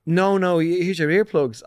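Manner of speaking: very slow, firm insistence on "earplugs"; the girl insisting he take the earplugs, slow and firm; insistent. Retold or imitated. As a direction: spell it out so he can't refuse. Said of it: "And she went".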